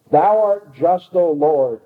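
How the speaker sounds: mock-solemn outcry; crying aloud. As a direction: cry it out to the Lord. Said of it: "may cry aloud with the rest".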